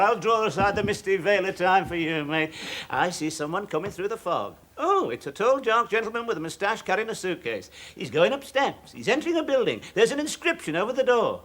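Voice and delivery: a hint of a spooky clairvoyant; lightly hammed-up mystic seer; mock fortune teller. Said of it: "I can see your future for her".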